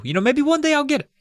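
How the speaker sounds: quick, high-pitched put-on dad voice; lightly hammed-up dad promising someday; high, fast mock dad. Dad voiced in retold story.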